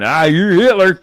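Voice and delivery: high-pitched mocking jeer in a put-on voice; mock name-calling. Host mimics opponents calling names, high mock voice. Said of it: "I know you name call".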